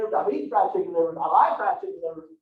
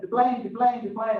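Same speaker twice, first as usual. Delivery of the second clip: Fantasy Island host call. Retold or imitated. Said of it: "I walked out in a suit and tie and went".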